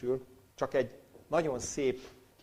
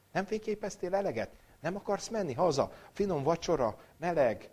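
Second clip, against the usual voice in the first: higher-pitched mock questioning; imagined questioning look; 8 semitones higher, 4 dB louder than usual. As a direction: needle the tourist with lifted, singsong questions. Rabbis' imagined teasing questions to tourist.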